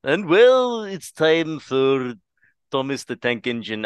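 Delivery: a hint of a cheery children's TV presenter, slow; light narrator voice, slowed way down; kids' show narrator. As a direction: announce it like a kids' TV host. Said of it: "You sounded so much like the conductor".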